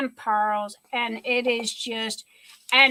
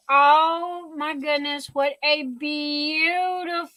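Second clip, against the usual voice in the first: fighting back happy tears; real emotion catching in the throat; tearful. Real, not acted. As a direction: gasp then a choked, slow oh my goodness. Gift moves her to tears.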